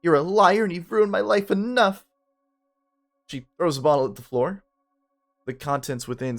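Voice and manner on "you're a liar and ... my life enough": loud, high insults; furious shout. Acted. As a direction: spit the words at him. Mia shouts at Ben.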